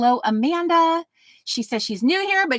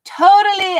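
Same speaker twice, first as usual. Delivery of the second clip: mock eighties valley girl; 7 semitones higher, 10 dB louder than usual. Eighties slang, said twice.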